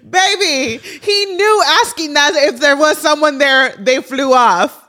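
laughing almost to tears; nervous giggle breaking through; nervous laughter. Real, not acted. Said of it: "I'm laughing because I have actually major fear of planes".

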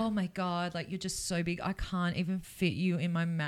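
hushed, sultry put-on praise; soft mock-seductive awe; soft mock flattery. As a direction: coo it like a porn line. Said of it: "would be a turn on for the guy".

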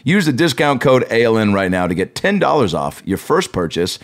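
upbeat podcast ad read. Acted. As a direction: sell it like a sponsor spot.

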